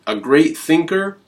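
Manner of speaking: thinker asked with a rising, doubtful tune; doubting question. Shown as a demonstration. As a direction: raise great thinker as a question to be shot down.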